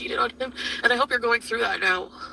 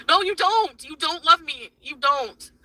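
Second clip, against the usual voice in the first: retold retort; 3 semitones higher, slower than usual. Acts out answering partner's love claim.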